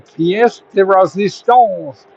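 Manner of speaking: slow, hammed-up French accent on pièce de résistance; a self-mocking French flourish. Shown as a demonstration. Host showing off a mock French accent to viewers. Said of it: "in my stupid French accent".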